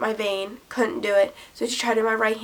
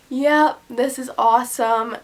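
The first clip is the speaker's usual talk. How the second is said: giddy delight; 2 semitones higher, 5 dB louder than usual. Retold or imitated. Loopy on pain medication.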